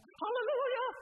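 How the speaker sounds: exultant mock hallelujah; hallelujah shout. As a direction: belt it like a megachurch preacher. Mocking megachurch preacher's exultant cry.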